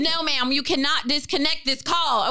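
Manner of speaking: lightly voiced Southern dispatcher refusing; firm Southern operator, imitated. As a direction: refuse with a hint of Southern formality. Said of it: "in my mind she was Southern".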